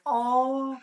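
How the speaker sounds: high, startled "Oh." as if caught off guard; surprised oh. Retold or imitated. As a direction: squeak out a surprised little oh. Reacting to the mom's surprising answer.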